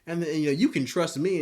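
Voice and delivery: high, sugary fake apology, laughing at the start; Firecracker mock innocence. Imitating a woman feigning innocence to Homelander, sugary mock-sweet voice. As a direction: gush a sweet, insincere sorry. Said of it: "and she's like".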